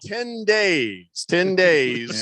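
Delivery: "ten days" drawn out slowly, each word stressed; emphatic correction. Real, not acted. Host correcting his own slip, "ten days" slow and emphatic. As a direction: stretch out "ten days" to make it clear.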